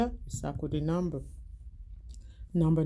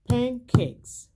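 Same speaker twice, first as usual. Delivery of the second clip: syllable-count demo; 6 semitones higher, 7 dB louder than usual. Shown as a demonstration. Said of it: "how many syllable do you hear".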